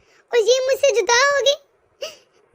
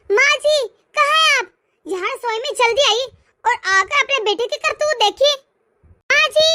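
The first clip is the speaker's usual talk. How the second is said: urgent call to mother-in-law; raised-voice calling. Acted. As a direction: call out through the house, agitated. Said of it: "क्यों इतना शोर मचा रखा है".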